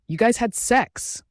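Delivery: furious slow roar; roaring with anger. A narrator's reading. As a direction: roar it in disbelief. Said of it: "he roared with anger".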